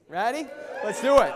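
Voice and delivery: big loud shout to fire up the room; rallying shout. Real, not acted. Speaker rallying the seminar audience, loud shout. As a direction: punch it out like a hype call to the crowd.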